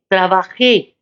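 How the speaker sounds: "trabajé" stressed on the last syllable; "trabajé" with the accent falling on -jé; stress on final E. Shown as a demonstration. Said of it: "había un acento en la E".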